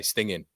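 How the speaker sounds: "Stinging" with no hard G; soft ng. Shown as a demonstration. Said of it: "what do we say?".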